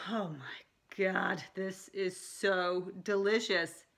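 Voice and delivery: slow, drawn-out delight at the taste; slow, savoring "so delicious". Retold or imitated. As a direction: let each word linger like a sip of good wine. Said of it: "it was like".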